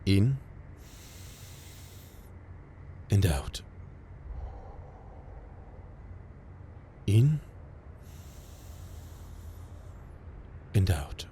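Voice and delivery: calm, drawn-out breathing cues with long pauses; slowly pace their breath for them; guided breathing. Acted. Medic coaching an injured patient to breathe, calm. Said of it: "Breathe with me".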